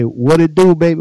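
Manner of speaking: loud, swaggering Houston rapper greeting; impression of a rapper. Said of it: the speaker claims to be that rapper.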